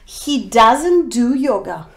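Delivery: doesn't said slow and leaned on; teacher stressing doesn't, do stays light. Shown as a demonstration. Teacher showing students the negative, doesn't stressed. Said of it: "the main verb do doesn't change".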